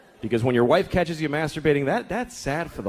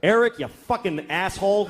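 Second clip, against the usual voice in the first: mocking schoolkid; 4 semitones higher than usual. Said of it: "what's your name".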